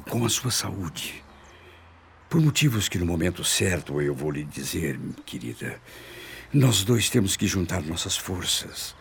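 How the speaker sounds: ordinary talk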